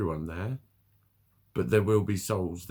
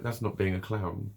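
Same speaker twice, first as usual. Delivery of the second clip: ordinary talk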